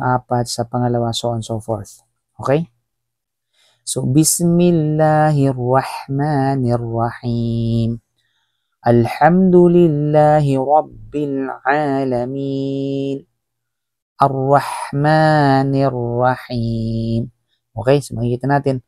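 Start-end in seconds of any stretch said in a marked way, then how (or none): 4.1-13.2 slow, drawn-out tajweed chant; slow Quran recitation. Shown as a demonstration. Teacher recites the Fatiha slowly for students. 14.2-17.3 slow, drawn-out tajweed chant; slow Quran recitation. Shown as a demonstration. Teacher recites the Fatiha slowly for students.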